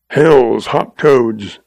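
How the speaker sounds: put-on slow, drawn-out old-timer's oath; swearing. Old rancher reacts to the shooting tale, swearing. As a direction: stretch the oath out, lightly crusty. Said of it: "swore old Moss".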